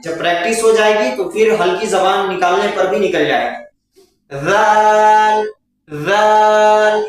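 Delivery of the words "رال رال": رال slow with the tongue tip between the teeth; drawn-out zaal. Shown as a demonstration. Teacher models رال with the tongue between the teeth. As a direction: hold رال like سا. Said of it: "اس طریقے سے".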